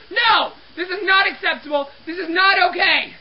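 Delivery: firm, indignant refusal; worked up. Acted. Cleaner rebuking the floor-soiling phantom, worked up. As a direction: lay down the law in comic outrage. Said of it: "Got a little worked up".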